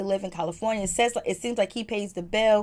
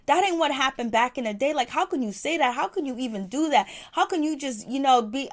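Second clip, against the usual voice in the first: higher-pitched indignant telling-off; retold upset scolding; 4 semitones higher than usual. Miss V cusses out Shelby over "master", retold indignation. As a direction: imitate an outraged, disbelieving dressing-down. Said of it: "Miss V was upset. She was mad. She cussed out Shelby".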